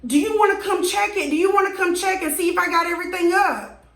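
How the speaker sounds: high, fast mock of his polite offer; mimicking neighbor. Neighbor asking the boyfriend, lightly mocked high voice. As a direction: parody his fake politeness.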